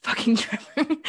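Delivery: put-on British curse broken by a laugh; giggly British imitation; laughing mock British. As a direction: laugh mid-line in a mock accent. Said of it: "seeing a flash of all caps".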